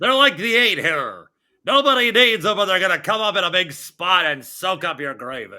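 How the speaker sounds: lightly hammed-up list announcer. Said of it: "Can you do it in an announcer voice?".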